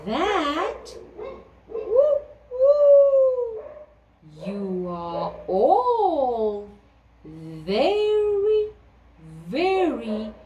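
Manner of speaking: high, slow hooting owl. Acted. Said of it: "said the owl".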